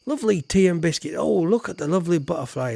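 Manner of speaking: lightly voiced, quick, gentle old lady; a hint of a fussy nanny cooing; fast cooing over tea and butterflies; Doubtfire Bob Ross voice. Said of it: "Missus Doubtfire meets Bob Ross".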